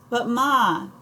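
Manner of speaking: high whiny plea; whining boy. A narrator's reading. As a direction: whine the protest again, sulkier. Boy protests to mother again.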